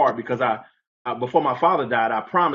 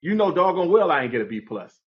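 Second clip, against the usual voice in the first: mild mock outburst; 4 semitones higher than usual. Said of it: "blew down on the teacher".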